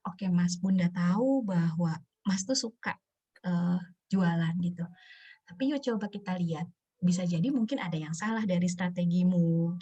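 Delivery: mildly soothing mother, fairly low-key; gently acknowledge, then coax the child; ibu yang menerima. Acted. Mother's accepting reply, acted. (ibu menenangkan anak dengan lembut)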